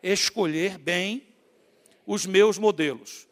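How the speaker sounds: each word drawn out for the congregation; slow repeat-after-me. Shown as a demonstration. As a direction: spell it out slowly for the church to echo. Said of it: "diga assim".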